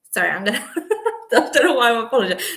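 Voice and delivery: giggling through the words, quick and bright; real embarrassed giggle; laughing. Real, not acted. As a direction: laugh at yourself while apologising. Laughs at own apology.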